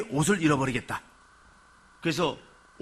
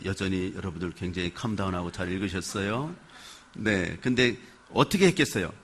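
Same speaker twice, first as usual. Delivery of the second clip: ordinary talk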